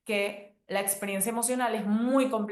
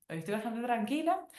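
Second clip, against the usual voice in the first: settled, closer to her own pitch; calmer repeat; 4 semitones higher, 3 dB quieter than usual. Retold or imitated. Repeating the answer to herself: calm, settled. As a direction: say it again, more grounded.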